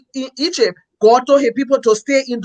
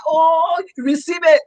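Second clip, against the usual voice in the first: mock prophetic call, pitched higher; prophesying pastor; 5 semitones higher, slower than usual. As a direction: imitate a pastor proclaiming a blessing. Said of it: "the pastor should prophesy".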